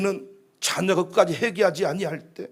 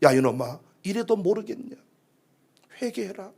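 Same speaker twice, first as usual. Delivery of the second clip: chiding Holy Spirit; 4 dB quieter than usual. Acted. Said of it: "성령님이 나의 등짝을 내리치시면서".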